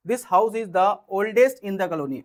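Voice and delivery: each word spelled out slowly for students to write; slow dictation. Shown as a demonstration. Slow dictation of example sentences.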